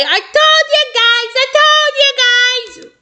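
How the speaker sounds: high, triumphant sing-song yell. Acted. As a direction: crow it over the noise. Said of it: "Toby yelling".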